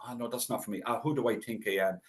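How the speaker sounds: hushed, self-doubting mutter; voicing his own doubts under his breath; doubting inner voice. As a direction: give the little inner voice that talks you out of it. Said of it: "this inner person that goes".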